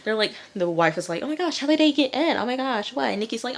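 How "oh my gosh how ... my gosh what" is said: high, rapid imitated panic; mock freak-out. Wife finding the house broken into, mock panicked squeal. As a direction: gabble it in hammed-up alarm. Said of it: "They're all freaking out".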